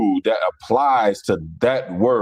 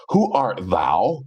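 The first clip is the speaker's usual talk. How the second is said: slow, over-proper archaic English; mock-formal speech; 3 semitones lower, much slower than usual. Shown as a demonstration. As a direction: draw it out in mock Shakespearean formality. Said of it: "We don't talk like that".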